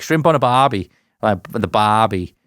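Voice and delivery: demonstrated Aussie accent. Shown as a demonstration. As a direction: lean into a stock phrase in an Aussie accent. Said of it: "I've always found it doing accents".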